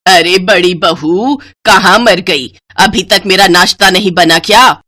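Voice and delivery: mild mock yell from the kitchen; shouting mother-in-law. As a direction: call out crossly across the house. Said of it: "जोर से चिल्लाकर कहती है".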